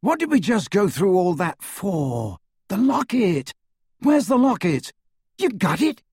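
high-pitched indignant shout. A narrator's reading. Ron demands the locket from his friends, shouting. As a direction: raise the voice high in exasperated disbelief. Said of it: "shouted Ron".

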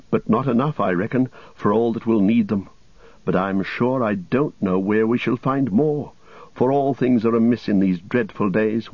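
a hint of a talkative healer woman, fretting; mildly flustered, chatty complaint; lightly voiced wise woman. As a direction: lightly play a worried serving woman of the house.

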